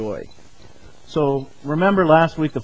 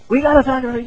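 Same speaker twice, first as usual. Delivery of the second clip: much higher put-on woman's voice; imitating wife; 10 semitones higher, much faster than usual. Wife following husband into the bedroom, high mimicked insistence. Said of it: "and she says".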